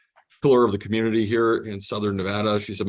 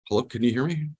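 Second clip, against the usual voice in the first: bad connection; 3 semitones higher than usual. Real, not acted. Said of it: "getting stuttering here on the, uh, on the Zoom call".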